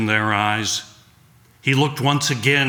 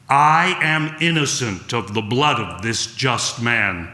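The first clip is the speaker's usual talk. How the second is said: clear and deliberate. Acted. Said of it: "said clearly and deliberately".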